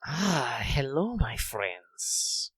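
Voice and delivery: slow hissing lizard man, rolling S's; a reptile host greeting his guests; Radamus lizard voice. Acted. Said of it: "I'm doing kind of a lizard man voice, so I have to roll my S's".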